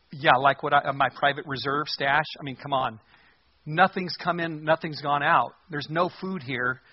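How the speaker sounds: mildly sarcastic mock king's retort. King answering the woman who begs for help, sarcastic. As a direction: brush off the request with exasperated sarcasm. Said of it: "he's being sarcastic with her in his response".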